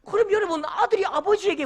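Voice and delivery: ordinary talk, nothing marked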